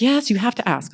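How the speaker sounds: an urgent whisper; whispered insistence. Retold or imitated. Sponsor urging her to ask, whispered. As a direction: whisper it firmly, no voice.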